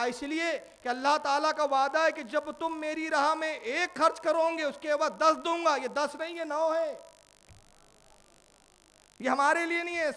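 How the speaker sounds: loud, high, forceful declaration; emphatic insistence. Acted. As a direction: proclaim God's promise with full force. Ali insists the gift is not theirs. (پورے زور سے بلند آواز میں اصرار)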